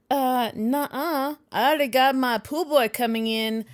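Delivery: sassy Z-snap. Retold or imitated. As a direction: snap it at him with attitude. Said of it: "Did you just Z-snap there?".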